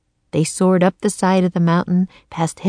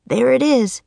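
slightly raised raven voice; croaking; 5 semitones higher than usual. A narrator's reading. Teddy spotting the nest, lightly voiced croak. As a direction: call it out a little high, like a bird. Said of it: "he croaked".

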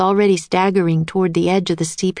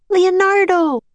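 yelling; 13 semitones higher, slower than usual. A narrator's reading. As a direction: call out as he crashes. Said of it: "yelled Annie".

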